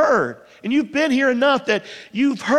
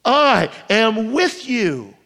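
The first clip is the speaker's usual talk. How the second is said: slow tender echo; 2 semitones lower, slower than usual. Acted. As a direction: let it land slowly and gently. Repeated promise, slowed.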